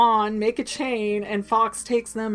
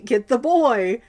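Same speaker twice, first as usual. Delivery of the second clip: loud, slow, drawn-out order; slow villain shout; 6 dB louder than usual. Retold or imitated. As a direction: drag out each word, still shouting. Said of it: "Voldemort's over there going".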